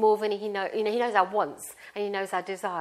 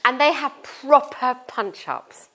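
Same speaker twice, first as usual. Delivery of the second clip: laughing whisper; 3 semitones higher, 5 dB louder than usual. Real, not acted. Laughing about sons fighting.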